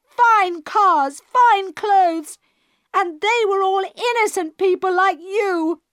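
rising fury until she is almost in tears; building to shouting. A narrator's reading. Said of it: "She was shouting now, and nearly crying".

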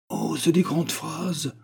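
put-on high, slow, tentative little-girl voice; tentative child. A narrator's reading. Child hazards a remark to her father, tentative. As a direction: venture it hesitantly, high and drawn out. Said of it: "hasarda l'enfant".

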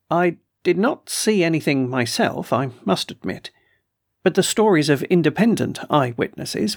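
a hint of a put-upon colonel, complaining; gruff colonel voice. Colonel complains to the doctor about trespassers, mildly indignant. Colonel reports the eyewitness stories.

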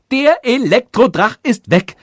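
high, loud royal jubilation; elated king calling out; joyful shout. A narrator's reading. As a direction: cry out the good news in delight. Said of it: "rief der König freudig".

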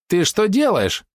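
high-pitched, indignant near shriek; near squeal. A narrator's reading. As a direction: squeal it in alarm. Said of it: "чуть ли не взвизгнула". (почти визг)

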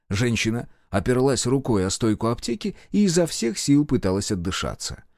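ordinary delivery, nothing marked

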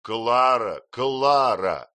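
loud, stern call of her name; stern rebuke. A narrator's reading. Husband rebuking wife Clara, loud and stern. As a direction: scold her sharply. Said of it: "строго проговорил мистер Мордстон".

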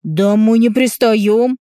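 loud, slow defensive shout; father protests loudly to the mother. Acted. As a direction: drag it out in exasperation. Father defends himself in quarrel.

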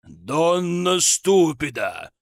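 slow, loud rough retort; rude snap. A narrator's reading. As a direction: cut her off rudely. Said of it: "грубо оборвал её баритон".

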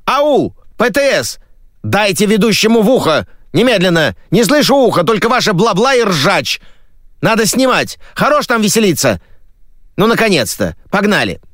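stressed TV host yelling at technicians; frantic shouting host. Acted. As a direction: rant at the booth, nerves frayed.

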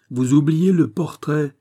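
loud, slow, booming; slow thunderous accusation; thundering voice. A narrator's reading. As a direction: thunder it down to chill his blood. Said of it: "avec une voix de tonnerre".

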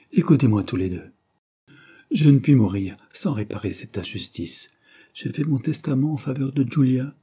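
lightly voiced dying uncle, urgent; a hint of a feeble old man pressing his point. Dying man dictating his will.

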